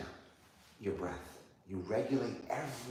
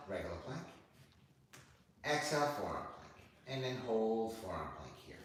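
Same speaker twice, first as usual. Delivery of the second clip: measured yoga flow, pausing between breaths; yoga cueing; 2 semitones lower, 5 dB quieter than usual. Real, not acted. Yoga teacher leading student through inhale and exhale, measured cueing. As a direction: guide each movement on the breath.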